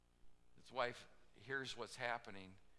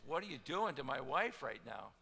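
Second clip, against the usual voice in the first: louder, outraged demand; enraged king; 2 semitones higher, 7 dB louder than usual. Acted. King finds Haman on the queen's couch, louder and outraged. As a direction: catch him in the act and shout at him.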